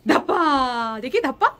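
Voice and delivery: put-on spring the surprise on the child; peekaboo call. Peekaboo game with toddler.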